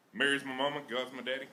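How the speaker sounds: lightly played-up Southern accent; Southern-accented Jesus. Comic retelling the Bible to a crowd, Southern accent. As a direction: introduce the family in a mild Southern twang. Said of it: "sounds better with a little Southern flair".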